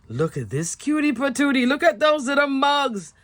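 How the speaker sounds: cutesy delighted coo. Real, not acted. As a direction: gush over something adorable. Cooing over the cute stamp.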